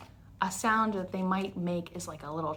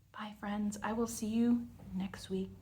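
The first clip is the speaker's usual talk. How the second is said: whisper; 6 dB quieter than usual. Real, not acted. Whispered goodbye to kids.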